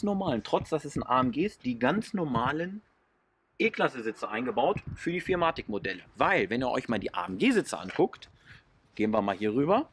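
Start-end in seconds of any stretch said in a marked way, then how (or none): 6.2-9.9 speaking over wind buffeting; wind on mic. Real, not acted. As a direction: wind noise on the microphone. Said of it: "Sorry für den Wind übrigens".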